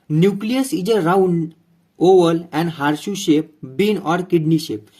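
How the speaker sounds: very slow, spaced-out dictation; dictating notes. Acted. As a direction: read it out slowly, phrase by phrase. Reads notes aloud for dictation.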